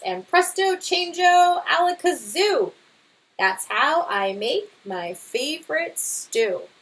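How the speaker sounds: lively storybook read-aloud; reading to children. Acted. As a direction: read it to a class, bright and expressive. Teacher reads picture book aloud.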